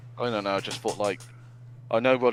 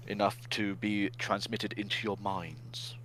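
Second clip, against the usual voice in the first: slow, breathy mystic whisper; mystical whisper; 7 dB quieter, slower than usual. Pretend. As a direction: whisper it like a mind-reader. Joking about imagining visuals.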